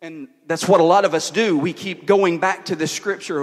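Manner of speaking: firm, projected sermon voice; preaching. Real, not acted. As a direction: press the point on the congregation. Preaches a point.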